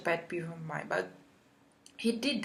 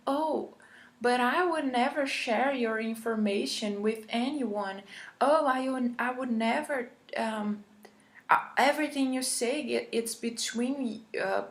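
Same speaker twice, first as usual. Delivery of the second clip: higher, lightly hammed-up eager therapist voice; mock therapist reassurance; 5 semitones higher than usual. Mocking the therapist who took it personally, mildly hammed-up. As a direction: mimic a clingy therapist insisting he's trustworthy.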